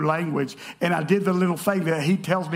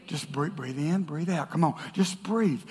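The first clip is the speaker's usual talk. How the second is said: much softer, lower calming voice; soothing hush; 5 semitones lower, 6 dB quieter than usual. Retold or imitated. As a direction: coax someone to calm down. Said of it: "what do they tell them".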